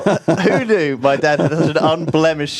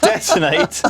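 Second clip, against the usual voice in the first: laughing surprise; 12 semitones higher, slower than usual. Real, not acted. Laughing disbelief at word.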